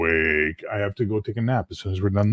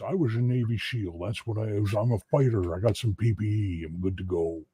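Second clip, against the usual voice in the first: tough soldier voice; 4 dB quieter than usual. Pretend. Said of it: "I would have to do it as".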